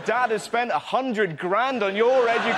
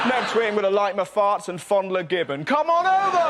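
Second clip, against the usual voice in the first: mock Prince Harry; 3 dB louder than usual. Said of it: "weekly show called These Are the Things".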